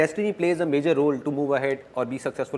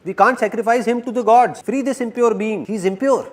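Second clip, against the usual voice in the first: raised, higher tribal shout; a tribesman crying out he's impure; 7 semitones higher than usual. Acted.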